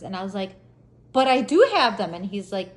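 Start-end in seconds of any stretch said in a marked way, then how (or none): 1.1-2.1 louder, stressed objection; indignant protest. Retold or imitated. Driver disputing officer's ticket, indignant protest. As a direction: push back at the accusation.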